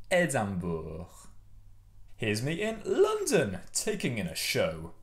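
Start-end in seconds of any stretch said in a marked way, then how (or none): 0.1-1.1 "Edinburgh" said the French way, like "ay-dam-BOOR"; French pronunciation. Shown as a demonstration. Teacher models French city name, "Edinburgh" as "ay-dam-BOOR". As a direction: say "Edinburgh" as French Édimbourg, lower. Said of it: "But in French, Edinburgh is".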